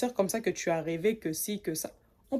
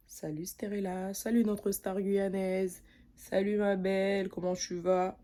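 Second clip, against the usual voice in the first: calm polite greeting. Shown as a demonstration. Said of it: "tu viens tranquillement".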